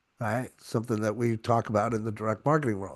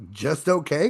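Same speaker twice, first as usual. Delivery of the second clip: questioning "just okay"; 5 dB louder than usual. Retold or imitated. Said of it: "I might say, like".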